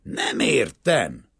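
loud, high, slow bewilderment; hoarse, faltering. A narrator's reading. Banker failing to understand the Greek's refusal, hoarse and faltering. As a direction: drag the words out, tongue catching. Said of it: "kérdezte rekedten és akadozó nyelvvel".

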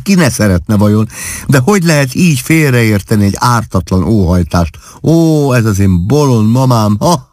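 laughing through the words, ha-ha acted out. A narrator's reading. Young wife laughing at her mother's innocent wish. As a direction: laugh till the tears come. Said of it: "úgy kaszagott, hogy a könnye is kibudjantak".

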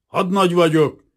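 lieutenant asserting his rank, haughty and loud; haughty rasp. A narrator's reading. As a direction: puff up and crow the rank. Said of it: "recsegte fölényesen".

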